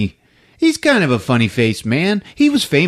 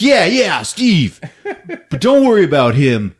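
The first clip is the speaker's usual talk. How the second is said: chummy detective. Retold or imitated. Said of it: "He's like".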